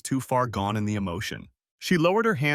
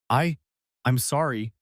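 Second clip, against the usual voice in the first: shaky stammer. Acted. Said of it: "she stammered ... voice shaky".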